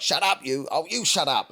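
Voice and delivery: playful squabble. Retold or imitated.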